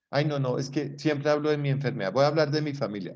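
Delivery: un poco más agudo y rápido, paciente que cambia de tema; paciente imitada. Retold or imitated. (paciente que se queja, algo más aguda y rápida)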